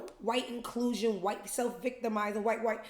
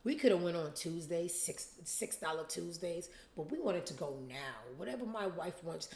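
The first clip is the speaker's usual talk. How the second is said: husband voice; 3 semitones lower, 6 dB quieter than usual. Retold or imitated. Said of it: "The husband says".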